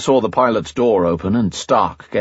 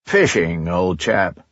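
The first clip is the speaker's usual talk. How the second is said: dry understatement; 2 semitones lower, slower than usual. Acted. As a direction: throw it away, mock English cool. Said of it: "used to the English understatement".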